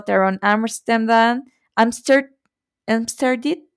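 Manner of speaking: "Amsterdam" attempted haltingly, with a differing ending on each try; unsure pronunciation. Real, not acted. Podcaster attempting a player's surname, unsure pronunciation of "Amsterdam". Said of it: "No sé si lo pronuncié bien".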